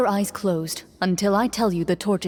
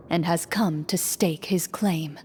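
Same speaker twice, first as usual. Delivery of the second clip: hushed game master narration; 2 semitones lower, 3 dB quieter than usual. Acted. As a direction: draw the players into the dark.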